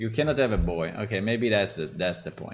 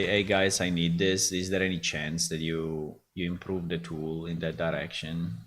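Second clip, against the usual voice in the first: pretend request; 6 semitones lower, 6 dB quieter than usual. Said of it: "I can try to speak with them and say".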